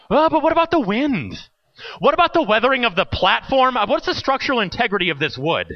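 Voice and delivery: put-on a nervous boy piling up worries; worried kid. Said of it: "I was worried about everything".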